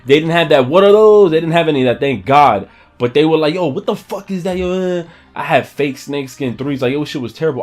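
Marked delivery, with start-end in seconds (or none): 0.7-1.3 high, loud heckling yell; mock shouted jeer. Kids heckling his fake sneakers, loud high mock yell. 3.5-5.0 high-pitched imitation of a heckler; mock appalled disbelief. People reacting to his fake shoes, high mock disbelief.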